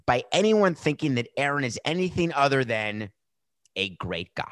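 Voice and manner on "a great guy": unvoiced sarcastic whisper. Real, not acted. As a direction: whisper it like a secret.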